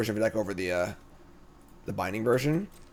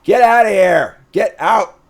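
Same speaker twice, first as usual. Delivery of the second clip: playful get out; 8 semitones higher, 10 dB louder, slower than usual. Real, not acted. Mock dismissal after bragging.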